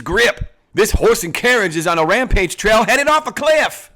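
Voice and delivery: loud, high hammed-up outlaw boss; Western outlaw boss. Boss bragging about his plan to the gang, in a loud, high hammed-up outlaw voice. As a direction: play the swaggering bandit chief to his gang. Boss threatening, bandits answering.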